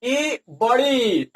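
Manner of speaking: ई बड़ी said slowly, vowels held; long vowel. Shown as a demonstration. Teacher repeating how it is said, long ई. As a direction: draw out ई and the end of बड़ी. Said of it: "इसको बड़ी ई ऐसे करके बोला".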